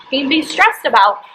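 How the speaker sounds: half-replayed angry denial to the therapist; losing it. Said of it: "So I kinda lost it on her".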